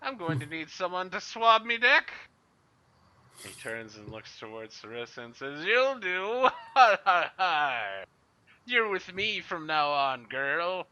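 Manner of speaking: very high, loud squeaky pirate; pirate Plug voice. Acted. Mister Plug picks Sarissa to swab his deck in a very high pirate voice. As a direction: shriek it like a gleeful pirate mate. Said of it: "Mister Plug goes".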